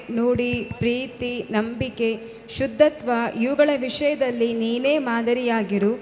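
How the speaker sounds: measured reading of Bible verses; scripture reading. Acted. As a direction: read the verse aloud with care. Daughter reads Bible verses aloud.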